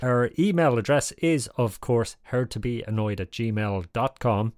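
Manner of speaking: put-on salty old sea captain host; gruff old fisherman. Podcast host character.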